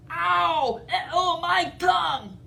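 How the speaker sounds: high, loud mock howl of pain; pained yelp. T. rex yelping at Edna's claws, high loud pain. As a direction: yelp like a bitten dinosaur.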